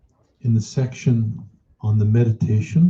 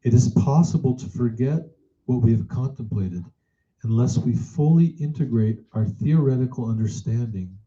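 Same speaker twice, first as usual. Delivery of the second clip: measured read-aloud. Acted. Teacher reading a contemplation on mind and meditation to students, measured read-aloud. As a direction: read it out phrase by phrase, letting each one settle.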